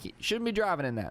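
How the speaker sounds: lightly put-on country-accented mom; a hint of country twang for mom. Mom warns her child off driving, mild country accent. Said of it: "doesn't have a country accent".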